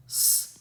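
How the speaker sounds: स as a lone s sound; isolated consonant sound. Shown as a demonstration. Teacher isolating the alliterating sound in saved, स as a bare s. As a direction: sound out स by itself, not the letter name. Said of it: "sound".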